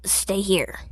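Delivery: clipped whispered command; gruff cop whispering an order; terse order. Acted. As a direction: tell him to stay put, under your breath. Cathead orders Izuku to stay.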